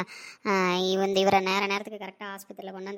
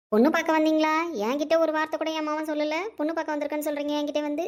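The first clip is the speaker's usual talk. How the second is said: shocked outburst; 7 semitones higher than usual. Acted. Grandma shocked at visitors.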